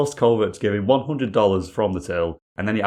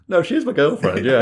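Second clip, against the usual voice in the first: put-on insistent young bloke, pitched up; defensive guy; 7 semitones higher, 6 dB louder than usual. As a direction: protest like a lying teenager. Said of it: "I imagine people are like".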